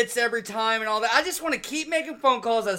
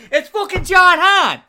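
slow, loud, higher put-on tough-guy voice; gruff prank caller; 9 semitones higher, 10 dB louder, slower than usual. Prank caller snapping a name at the shop owner, loud and slow.

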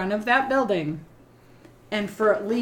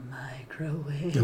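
much softer, slow, low creepy gremlin murmur; 6 semitones lower, 10 dB quieter, much slower than usual. Retold or imitated. Host voices gremlins recognizing the microwave, slow and low. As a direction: breathe it out slowly like a spooked gremlin. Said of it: "they're like".

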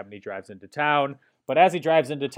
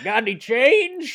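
lightly voiced homeless man, slow; 10 semitones higher, 3 dB louder, slower than usual. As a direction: ask slowly, a hint of a drifter.

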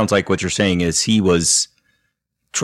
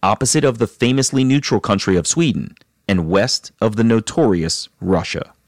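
measured storytelling read over music; steady, composed host narration; documentary narration; 3 semitones higher than usual. Acted. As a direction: narrate the guest's backstory like a podcast intro.

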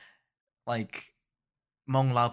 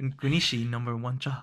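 put-on thick Hmong accent; slower than usual. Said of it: "the way I say number is, like, I said, like, such a thick Hmong accent".

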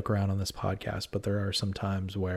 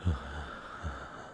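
creepy killer sigh; 7 semitones lower, 12 dB quieter than usual. Acted. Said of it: "here's the voice of the killer".

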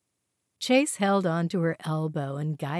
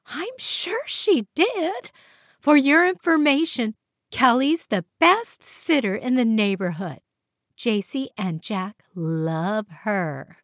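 huffy; 5 semitones higher, 3 dB louder than usual. Acted. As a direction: huff it back defensively. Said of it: "Marianne huffed".

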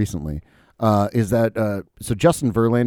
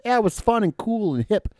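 mock enthusiasm; 12 semitones higher than usual. Acting out the nostalgic reaction.

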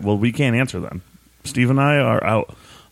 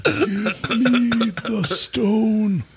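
dramatic villain voice; 12 semitones higher, much slower than usual. Pretend. Mock dramatic line after riddle.

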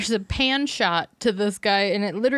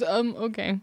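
blank, mock-hesitant reply; forgot his line; 4 dB quieter, slower than usual. Imitating character asked boy or man, blank and hesitant. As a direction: imitate a stuck actor filling in. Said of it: "He forgot his line".

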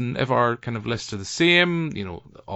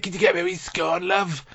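much higher, strained voiceless-wife impression; 9 semitones higher than usual. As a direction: squeak it out like she's lost her voice. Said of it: "She's just got no voice".

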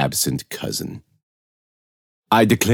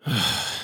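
weary sigh; 9 dB quieter than usual. A narrator's reading. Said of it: "pinched the bridge of his nose and sighed".

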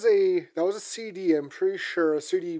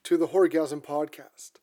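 slow, ominous horror host welcome; slower than usual. Acted. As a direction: draw out the spooky intro like a horror host. Horror podcast opening.

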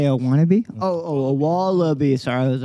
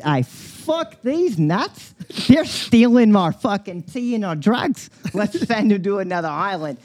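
put-on English accent; 4 semitones higher, 3 dB louder, slower than usual. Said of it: "all the fucking English people said".

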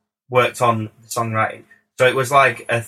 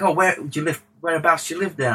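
higher-pitched, lightly imitated star; a rapper; 6 semitones higher, faster than usual. Star asking where the producer lives, bad impression. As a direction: attempt a celebrity accent, badly, voice raised. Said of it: "This is a really terrible rapper accent".

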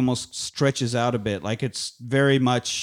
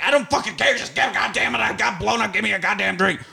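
put-on flustered drunk; 7 semitones higher than usual. Drunk flustered Gideon demanding drink.

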